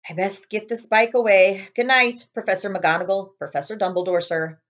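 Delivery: cheerful giant reporting in; Hagrid voice. Acted. Hagrid saying goodbye.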